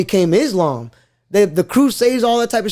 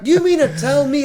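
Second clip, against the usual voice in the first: laughing mock quote; 5 semitones higher than usual.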